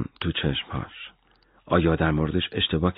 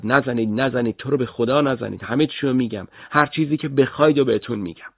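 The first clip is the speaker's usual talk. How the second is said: begging cry; 4 semitones higher than usual. Acted. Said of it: "داد زد".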